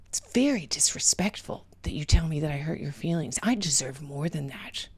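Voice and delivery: whispered huffy complaint; mock offended person. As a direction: sulk it out in a hush. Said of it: "You say something like".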